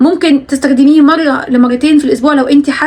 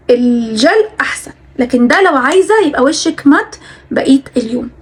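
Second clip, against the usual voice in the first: tired. Real, not acted. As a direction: speak wearily, a tired voice. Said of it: "انا تعبانه ونفسي اعتقد باين في الكلام".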